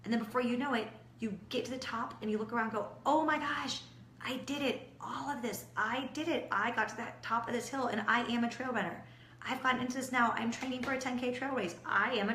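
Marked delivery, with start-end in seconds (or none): 3.0-9.0 higher, excited cry of victory; triumphant excitement. Retold or imitated. Runner at the top of the hill, excited and triumphant. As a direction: celebrate reaching the top.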